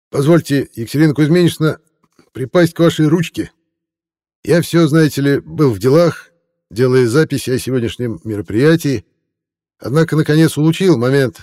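high, fawning tipsy reporter voice; a drunk hack laying on the flattery, pitched high. Acted. Tipsy reporter greets lady.

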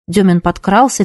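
ordinary delivery, nothing marked

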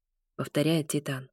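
plain reading voice

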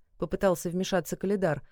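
plain reading voice

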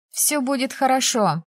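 put-on high-pitched girl's reassurance; hurried reassurance. A narrator's reading. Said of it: "поспешила заверить его Пенни". (торопливо заверяя друга, высоким голосом)

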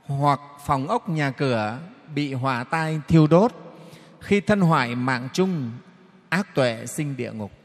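slow, measured chanting of the verses; solemn Buddhist verse reading; sutra recitation. Acted. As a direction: intone each line like scripture.

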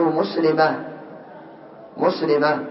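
"مسلمة" ending in a soft h, muslimah; final ة as h. Shown as a demonstration. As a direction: stop on "مسلمة" with a breathed h, not a t. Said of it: "بالهاء".

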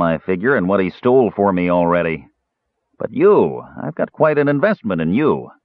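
the dwarf lets the menace show; vicious dwarf. Acted. Arak turns vicious.

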